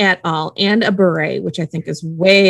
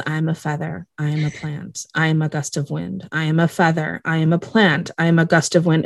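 meditation mantra; 3 semitones lower, 4 dB quieter than usual. Retold or imitated. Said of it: "trying to meditate his way".

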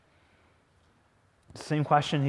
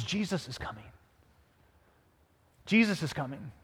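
someone announcing news; 6 dB quieter than usual. Retold or imitated. Someone in the crowd tells the blind man, hushed. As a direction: say it softly, with a pause before repeating. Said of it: "someone says".

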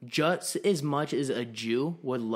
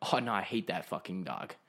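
softer, lowered, hurried disowning; quick denial; 5 semitones lower, 5 dB quieter than usual. Retold or imitated. Host pretending to disown his dog under threat, hushed. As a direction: mutter the denial to save your skin. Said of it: "I put my pride aside and I go".

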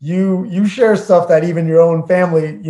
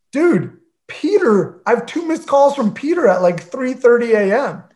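imitated morning-after panic, pitched up; retold alarm; 6 semitones higher than usual. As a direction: break startling news to a roommate. Retold alarm at missed calls.

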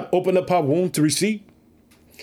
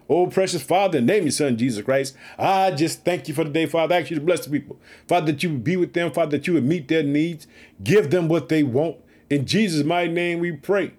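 closing prayer. Real, not acted.

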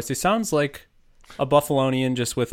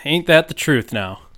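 whispered hick agreement; mock folksy whisper; 4 semitones higher, 7 dB louder than usual. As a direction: hush it like a conspiratorial yokel.

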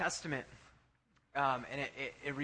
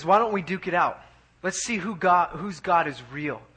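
loud, punchy challenge; 7 dB louder than usual. Retold or imitated. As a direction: throw down the challenge, louder and firm. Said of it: "he challenges them".

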